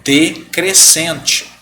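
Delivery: decrescente said slowly, syllable by syllable; drawn out slowly. Shown as a demonstration. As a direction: stretch out decrescente. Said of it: "Daí eu tenho o ditongo". (devagar, sílaba por sílaba)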